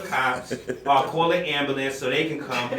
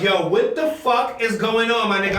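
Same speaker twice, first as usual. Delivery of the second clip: panicked; 6 semitones higher, 4 dB louder than usual. Retold or imitated. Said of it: "I'm like".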